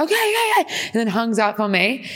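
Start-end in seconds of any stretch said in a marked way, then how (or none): 0.0-0.7 squeaky mock okays, much higher; imitating a curt brush-off; mock dismissive okay. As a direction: toss off three high okays before hanging up. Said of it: "and she's like".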